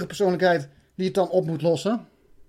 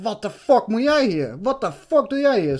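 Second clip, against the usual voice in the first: retold yell; 4 semitones higher, 4 dB louder than usual. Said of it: "in dat oog te schreeuwen".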